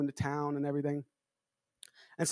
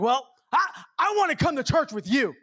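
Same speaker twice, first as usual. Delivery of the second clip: mechanic's eager request; 8 semitones higher, 4 dB louder than usual. Retold or imitated. Mechanic voiced asking to come.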